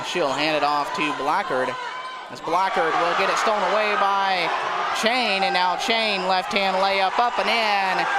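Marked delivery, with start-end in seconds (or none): 2.3-8.1 excited call. Real, not acted. Steal and layup called live.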